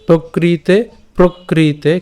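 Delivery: প্রকৃতে with a clear r-cluster pra, not pa; প্রকৃতে with audible pra; pronunciation demo. Shown as a demonstration. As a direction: stress the রফলা in প্রকৃতে. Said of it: "এখানে রফলা আছে".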